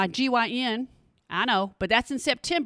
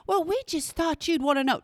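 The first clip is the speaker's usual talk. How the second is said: fake piety; 4 semitones higher than usual. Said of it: "fake evil smiles on, all the fake piety".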